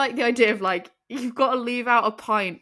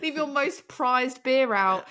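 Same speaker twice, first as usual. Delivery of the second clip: loud, slow, laughing mock warning; hammed-up spooky decree; 7 semitones higher, 5 dB louder than usual. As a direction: intone it like a spooky ritual.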